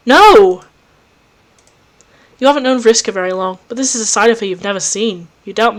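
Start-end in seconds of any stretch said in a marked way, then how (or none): 0.1-0.6 loud emphatic no; firm no. Acted. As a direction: slam the answer down. Character answers emphatically.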